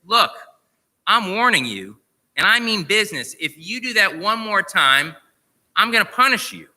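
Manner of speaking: a lightly voiced fed-up owner laying down the law; half-hearted angry warning to the parrot; peeved warning. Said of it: "he's getting really peeved".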